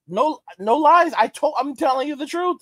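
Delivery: insistent. Real, not acted. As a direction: drive it home. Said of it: "insisting to viewers".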